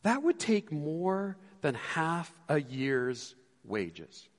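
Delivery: slow, drawn-out calculation; lightly voiced worried disciples; disciples doing the math. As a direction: spell the cost out slowly. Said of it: "they go".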